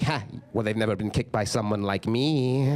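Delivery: lightly voiced bragging dad; boastful dad. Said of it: "He's like".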